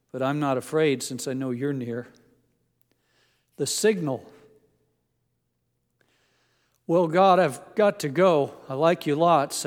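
poem recitation. Acted. Preacher reading a Vietnam soldier's poem to the congregation, earnest recitation.

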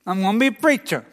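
stuttering Dutchy voice. Retold or imitated. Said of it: "his Dutchy voice".

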